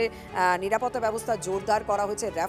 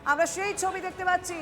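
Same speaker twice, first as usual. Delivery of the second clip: slightly raised, urgent live news call; live breaking-news commentary; 6 semitones higher than usual. Real, not acted. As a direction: announce the arrival as it happens. Anchor calls the arrival live. (সরাসরি breaking নিউজের ধারাভাষ্য)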